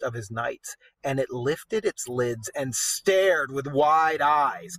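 steady storyteller reading aloud; story narration. A narrator's reading. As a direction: read it like an epic tale. Reads the poem aloud.

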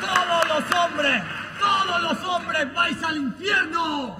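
put-on slow, loud possessed girl; creepy child. Possessed girl screams at priest.

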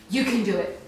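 strained laugh; laughing through effort. Real, not acted.

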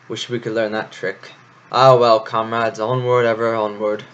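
rallying. Acted. Florian rallies his comrades.

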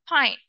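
pine with a puffed P, pʰaɪn; P sound. Shown as a demonstration. Teacher showing pupils the P sound, crisp P. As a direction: give pine an aspirated P. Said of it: "P sound".

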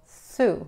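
"Sue" with a sharp S, tongue tip at the teeth; English S. Shown as a demonstration. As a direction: hiss the S in "Sue". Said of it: "Por ejemplo". ("Sue" con S sorda)

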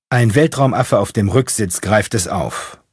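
usual speaking voice

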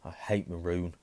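half-hearted moan. Acted. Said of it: "Ron moaned half-heartedly".

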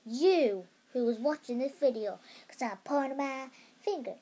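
light put-on American teen accent, bubbly. Kid vlogger mimicking an American YouTuber for her viewers, light American accent. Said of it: "I'm going to do my American accent".

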